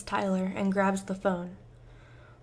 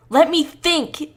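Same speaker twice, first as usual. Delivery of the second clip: slow, much louder, higher yell; 7 semitones higher, 11 dB louder, slower than usual. Acted. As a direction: yell it back, drawn out. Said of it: "Tyler yells back".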